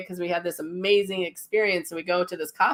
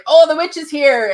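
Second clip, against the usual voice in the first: excited recognition; 9 semitones higher, 10 dB louder than usual. Retold or imitated. Sensing the witch in meditation.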